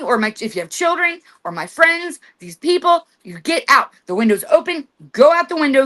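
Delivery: stern house-owner's command to an unwelcome spirit; commanding with authority. Shown as a demonstration. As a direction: order the spirit out like you own the place. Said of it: "you say with authority in your voice".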